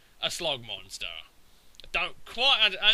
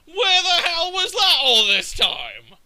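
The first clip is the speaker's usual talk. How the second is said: loud, high-pitched indignant complaint; retold outburst of exasperated disbelief; incredulous outrage; 12 semitones higher, 8 dB louder than usual. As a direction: demand an explanation, voice shooting up. Retold outrage at surprise Earthquake.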